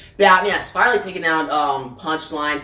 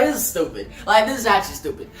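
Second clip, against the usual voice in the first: exasperated; faster than usual. Real, not acted. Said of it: "And I'm like".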